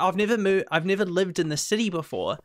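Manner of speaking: imitating a southern New Zealand girl's thick Kiwi accent; mock strong Kiwi accent. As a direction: put on a broad Kiwi accent. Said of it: "she has a really strong Kiwi accent".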